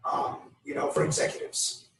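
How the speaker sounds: hoarse, barely voiced words; lost voice. Real, not acted. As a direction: talk through a lost, hoarse voice. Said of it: "I lost my voice this weekend".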